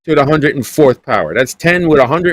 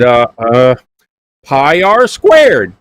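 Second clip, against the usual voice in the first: Jethro son; 4 dB louder, much slower than usual. Retold or imitated. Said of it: "you sounded like there was Jed Clampett and Jethro".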